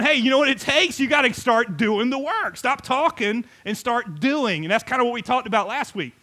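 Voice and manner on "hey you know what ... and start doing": rousing exhortation. Retold or imitated. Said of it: "but he's going".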